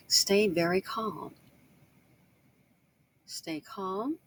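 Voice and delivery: slow, soothing instruction; calm, measured fatherly advice. Retold or imitated. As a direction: ease it down, unhurried and even. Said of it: "My father taught me that".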